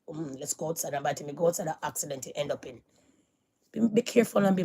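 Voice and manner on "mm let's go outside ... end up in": low, hushed voice of the mind; mock inner whisper. The mind tempting you to go outside, softly mock-whispered. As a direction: murmur it softly, like a nagging thought. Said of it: "that mind will whisper in your head".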